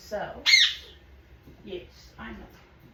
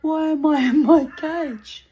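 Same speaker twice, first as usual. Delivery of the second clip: much higher, louder indignant bird voice; voicing the bird; 7 semitones higher, 12 dB louder than usual. Owner voicing her caged bird's outrage, indignant. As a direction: squawk it like an offended parrot. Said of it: "He's like".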